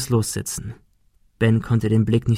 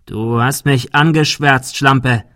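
angry accusation; 2 semitones higher, 4 dB louder, slower than usual. Acted. Thug threatens cornered girl.

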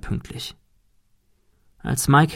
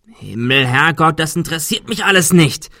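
higher, exasperated cry; outburst; 5 semitones higher than usual. Acted. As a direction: snap at them in panic. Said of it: "schrie Adrian".

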